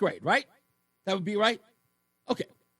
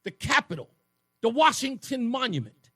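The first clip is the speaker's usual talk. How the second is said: a schoolkid on a bus getting more and more thrilled; kid's excitement; 5 semitones higher than usual. Retold or imitated. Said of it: "I was on that bus saying".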